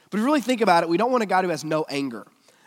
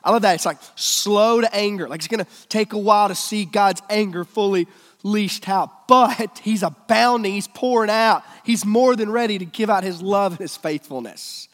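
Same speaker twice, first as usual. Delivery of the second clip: excited preaching; 5 semitones higher, 7 dB louder than usual. Real, not acted.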